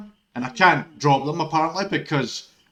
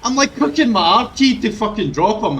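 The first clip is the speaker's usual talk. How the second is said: louder, higher ranting; 6 semitones higher, 8 dB louder than usual. Real, not acted. Streamer ranting about the R key, loud rant. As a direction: rattle it off fuming.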